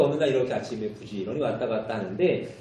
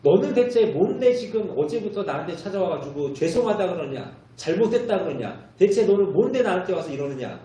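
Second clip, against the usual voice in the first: mock-angry scolding, pitched higher; angry retold mayor; 5 semitones higher than usual. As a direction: act out an exasperated mayor, mildly heated. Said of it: "시장이 화를 내더라는 거죠". (화난 시장을 흉내 내며 높은 소리로 따지듯)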